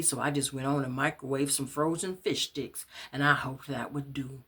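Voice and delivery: ordinary delivery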